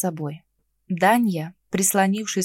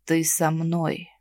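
сипло выдавить; 4 semitones lower, 3 dB quieter, much slower than usual. Acted. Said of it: "сипло выдавил он".

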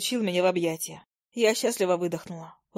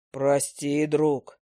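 much lower, slow rumble; rumbling troll; 6 semitones lower, much slower than usual. A narrator's reading. Troll rumbling an apology to the owl. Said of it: "пророкотал тролль".

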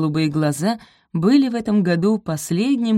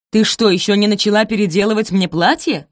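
loud stern demand; menacing; 4 semitones higher, 6 dB louder than usual. Acted. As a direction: loom over her and demand. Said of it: "раздался грозный голос Араминты".

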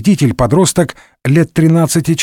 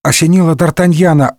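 ordinary delivery, nothing marked

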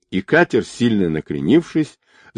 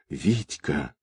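very soft, lowered whisper; 5 semitones lower, 10 dB quieter than usual. A narrator's reading. Girl limp in the boatswain's arms, faint whisper of his name. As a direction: whisper the name, all strength gone. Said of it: "прошептала девушка".

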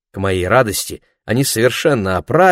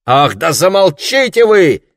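irritated interruption; 7 semitones higher, 5 dB louder than usual. Acted. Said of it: "перебил Лесли".

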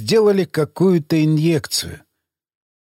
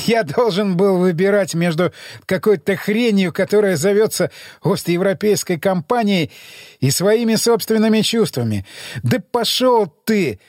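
defiant drugged captive; 5 semitones higher than usual. Acted.

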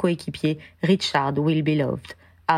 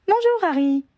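accueil joyeux; 14 semitones higher, 3 dB louder than usual. A narrator's reading. Héloïse accueille Harry gaiement.

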